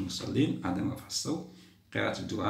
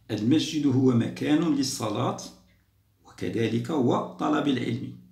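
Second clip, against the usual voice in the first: loud, slow, word by word for the class; slow emphatic reading; 3 semitones higher, 5 dB louder, slower than usual. Shown as a demonstration. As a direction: read the statement out slowly and clearly so children can follow. Teacher reads exam statement to pupils. (قراءة بطيئة واضحة بصوت عالٍ للتلاميذ)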